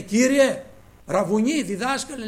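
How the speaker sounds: high, loud cry of Κύριε; loud pleading. Retold or imitated. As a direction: call out to the Lord with all your heart. Bartimaeus pleads to the Lord. (δυνατή ικεσία)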